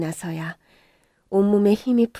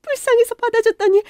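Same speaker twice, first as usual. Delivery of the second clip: rising outrage, higher and higher to a cry; furious mother; 13 semitones higher, 6 dB louder than usual. Acted. Mother scolding the girl who took in her son, furious. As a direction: lash out like a mother betrayed.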